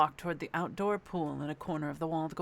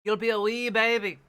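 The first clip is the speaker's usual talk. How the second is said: hammed-up threat; 3 semitones higher, 7 dB louder than usual. Playing threatening old wizard character.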